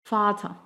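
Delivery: "Vater" ending in an open A; vocalized final R. Shown as a demonstration. Teacher demonstrating "Vater" with final R as A. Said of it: "termina como un sonido de A".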